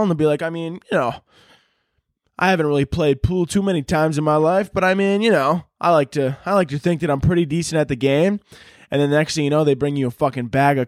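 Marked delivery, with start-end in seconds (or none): 0.4-8.4 lightly voiced, higher-pitched innocent; clueless Canadian. Canadian misunderstanding an offer of an eight ball, mildly clueless. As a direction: play a modest, oblivious Canadian. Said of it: "Canada's just confused".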